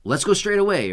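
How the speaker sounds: high, light British imitation; British accent. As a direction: say it like a Brit. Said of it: "They say, like ... or however they say it".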